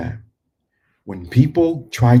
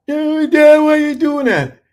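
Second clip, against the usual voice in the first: put-on high, loud cry of a startled child; startled kids; 4 dB louder than usual. Son crying out to father after being chopped awake. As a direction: squeal like a kid jolted awake. Sons woken by karate chop.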